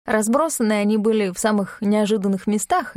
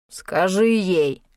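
рявкнул; much slower than usual. Acted. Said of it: "рявкнул Багров".

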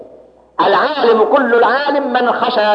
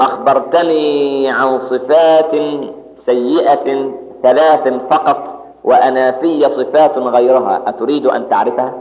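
calm reply; 6 semitones lower, slower than usual. Retold or imitated. الحسن البصري يرد بهدوء.

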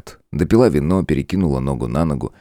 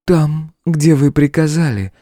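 голос демоницы; 11 semitones higher, 4 dB louder, slower than usual. A narrator's reading. Покорный ответ демонице.

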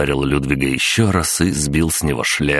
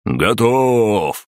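roar; 6 semitones higher than usual. A narrator's reading. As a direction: bellow it out in triumph. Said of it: "взревел Ульф". (торжествующий рёв)

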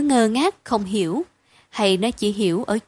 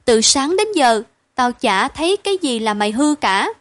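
coaxing; 2 semitones higher than usual. Acted. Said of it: "vội dỗ dành".

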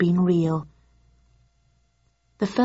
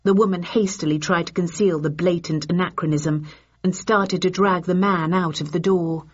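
ordinary delivery, nothing marked

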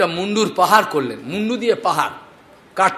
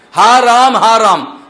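louder cry of grief, calling the name; wailing cry; 2 semitones higher, 5 dB louder, slower than usual. Retold or imitated. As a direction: call out in anguish. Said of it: "বলে চিৎকার করছেন". (শোকার্ত মায়ের উচ্চ আহ্বান)

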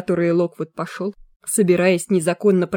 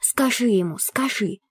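insistent ghost skull; 4 semitones higher than usual. Acted. Skull urges Lucy.

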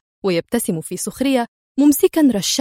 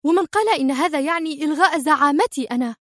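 higher, cutting-in indignation; angry; 6 semitones higher than usual. Acted. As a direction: interrupt him, offended. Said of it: "قاطعته هي في غضب".

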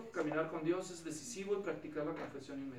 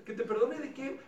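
puzzled God; 6 semitones higher, 4 dB louder than usual. Pretend. God's imagined reply.

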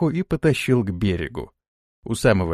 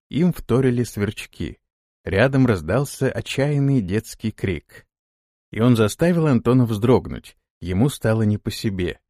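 ordinary delivery

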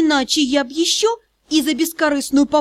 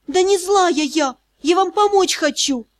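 protesting exclamation; 5 semitones higher than usual. A narrator's reading. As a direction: insist that you mean well. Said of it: "воскликнула я".

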